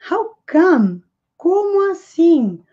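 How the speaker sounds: a teacher showing surprise in Como assim; surprised. Shown as a demonstration. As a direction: sound genuinely taken aback. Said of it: "ela demonstra surpresa".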